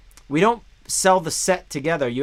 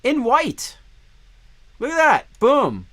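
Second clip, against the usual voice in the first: excited; 10 semitones higher, 5 dB louder, slower than usual. Real, not acted. Showing off the white pickup.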